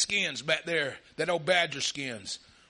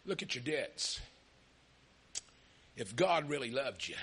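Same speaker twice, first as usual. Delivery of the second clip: sly tempter; 5 semitones lower, 5 dB quieter than usual. Retold or imitated. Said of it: "He'll say".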